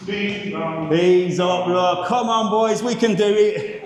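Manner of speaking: straining up the stairs; shaking with effort. Real, not acted. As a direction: push through tired legs on the climb. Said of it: "my legs are shaking a bit now".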